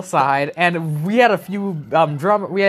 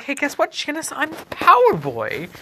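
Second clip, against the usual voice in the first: put-on boastful superhero boy; 7 semitones higher than usual. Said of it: "and I was like".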